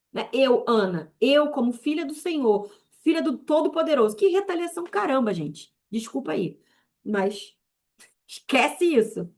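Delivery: declaring authority in a rising sermon; fervent preaching. Acted. Preacher telling believers the enemy fears them, fervent. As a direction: proclaim it with fervent conviction.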